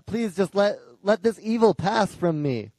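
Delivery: hushed, faltering plea; softly beg, as an acted prayer of despair; crying out softly. Elijah alone in the wilderness prays for evil to pass, quiet plea. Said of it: "he's crying out".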